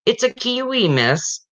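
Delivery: put-on high keen kid voice; eager pupil. Boy answering teacher's riddle, high and keen. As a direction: pipe up fast like a kid sure he's right. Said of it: "and a boy said".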